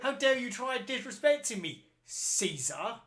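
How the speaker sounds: high, laughing hammed-up outrage; a touch of theatrical offense; mock indignant. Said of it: "And I was like".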